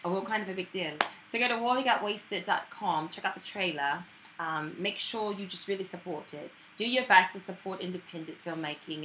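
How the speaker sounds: put-on British accent, natural and conversational. Promoting the film to viewers, British accent. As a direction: chat comfortably in a practised British accent.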